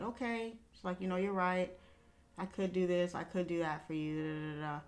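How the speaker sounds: subdued mother conceding; quiet mom reply. Retold or imitated. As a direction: give in softly, almost under the breath. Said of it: "And she was quiet".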